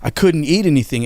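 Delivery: retold kid's tearful complaint; imitated crying. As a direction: lightly mimic an upset little brother pleading. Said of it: "he was just crying".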